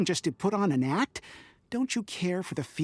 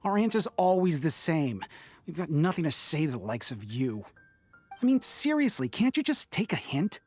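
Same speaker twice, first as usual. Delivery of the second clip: fed-up, pitch jumping up in irritation; exasperated rebuff. Acted. Townsperson refusing to hear the noble out, exasperated. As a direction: brush them off with growing impatience.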